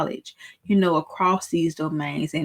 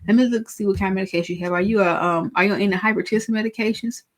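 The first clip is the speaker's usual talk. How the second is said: higher, friendly pharmacist at the counter, a bit quicker; pharmacist talking to a patient; 5 semitones higher than usual. Acted. Pharmacist to patient asking about meds, higher and friendly. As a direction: play the helpful pharmacist checking the profile. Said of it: "You can simply say".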